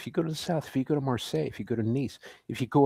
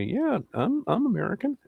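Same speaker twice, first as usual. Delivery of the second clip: higher-pitched voicing of a tourist; acted tourist quote; 12 semitones higher than usual. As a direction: pitch it up, playing the American at the bar. Voicing an American in French bar.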